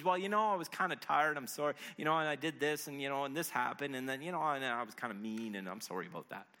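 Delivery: half-hearted sorry padded with "you know"; excuse-making apology. Acted. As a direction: make mumbly excuses, losing steam. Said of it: "no excuses".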